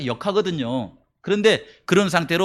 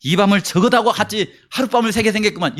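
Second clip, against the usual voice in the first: grumbling complaint. Pretend. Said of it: "이런 생각을 했을까요?".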